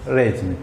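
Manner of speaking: रेज्यूमे repeated as "rezyume"; correct pronunciation. Shown as a demonstration. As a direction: repeat रेज्यूमे as "re-zyu-me" for the class. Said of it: "ऐसे ये application पढ़ा जाएगा". (सही उच्चारण दोहराएँ: रेज्यूमे)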